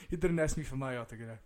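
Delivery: understated deadpan comeback; straight-faced. Retold or imitated. Dad brushing off his upset kid, mildly deadpan. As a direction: drop out of the outrage into simple fact. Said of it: "looks at me with a straight face".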